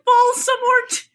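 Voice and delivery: high, drawn-out mock cry; stretched playful yell; mock shout. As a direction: echo the shout, hammed-up and slow. Echoes the shouted story line.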